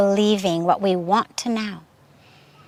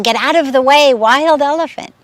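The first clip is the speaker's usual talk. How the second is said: higher, louder crowd yell; retold yelling; 4 semitones higher, 4 dB louder than usual. Marketplace crowd yelling at the disciple to move. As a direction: warn the stubborn disciple, loudly. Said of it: "are yelling".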